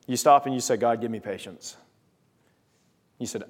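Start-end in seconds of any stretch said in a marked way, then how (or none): 0.8-1.8 patient prayer. Acted. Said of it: "paint this same story a different way".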